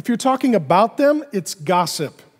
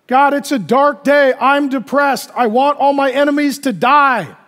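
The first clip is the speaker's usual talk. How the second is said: lament prayer; 5 semitones higher, 4 dB louder than usual. Acted. Quoting a lament psalm.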